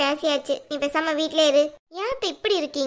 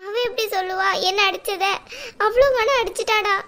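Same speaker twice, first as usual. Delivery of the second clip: higher, louder weepy wail; tearful accusation; 3 semitones higher, 3 dB louder than usual. Acted. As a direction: cry out your grievance to your son. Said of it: "அழாதீங்கம்மா".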